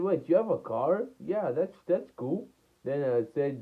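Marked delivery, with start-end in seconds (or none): 0.0-2.5 put-on higher-pitched surprised girl; lightly voiced girl. Girl learning her new friend has a car, lightly voiced in higher pitch. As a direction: raise the pitch a little for her reply. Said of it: "She said".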